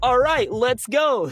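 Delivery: high-pitched rush of retold excitement; light up, pitch way up, raring to go; excited realization. Retells realising he knows the accent.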